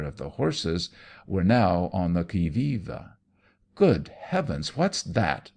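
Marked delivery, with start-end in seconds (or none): 3.8-5.5 a mild alarmed exclamation; lightly voiced fright in the dark; startled cry. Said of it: "they cried in chorus".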